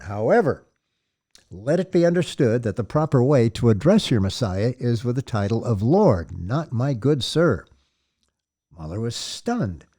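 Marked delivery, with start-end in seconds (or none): 0.0-6.4 firm, louder rebuke; reprimand. Acted. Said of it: "took on the tone of a reprimand". 6.4-7.6 slow, firm correction of "my good sir"; reprimand. Acted. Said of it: "took on the tone of a reprimand".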